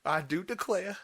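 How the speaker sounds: playful Southern belle impression; Southern accent. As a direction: echo the mock Southern lady. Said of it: "She has a really southern accent".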